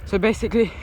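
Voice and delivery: breathless while cycling; puffing out words, winded; out of breath. Real, not acted. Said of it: "my breath".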